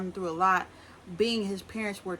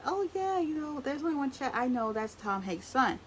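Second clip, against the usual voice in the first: gushing fangirl; 6 semitones higher than usual. Retold or imitated. Imitating Brielle gushing over Chet.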